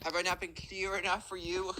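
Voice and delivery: slow, loud exasperated "Yes, Steven"; annoyed kid voice. Retold or imitated. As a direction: snap back at the classmate. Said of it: "the Gen Z kid is like".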